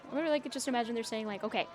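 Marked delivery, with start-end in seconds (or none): 1.4-1.7 put-on loud laughing Australian accent, getting louder; mock Australian footy player. Streamer imitating Australian footballers, loud laughing Aussie accent. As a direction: bellow it like a rough Aussie player, cracking up.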